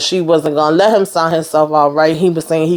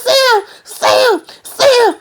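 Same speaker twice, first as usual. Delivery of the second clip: very high, sing-song soothing; calm him like a scared child; soothing nurse; slower than usual. Retold or imitated. Priscilla soothing panicked Sam.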